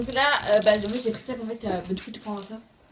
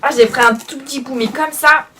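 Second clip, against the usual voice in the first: talking through a burning mouth; gasping a bit from chili heat; mouth burning from spicy food; 3 semitones higher, 6 dB louder than usual. Real, not acted. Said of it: "j'ai la bouche en feu".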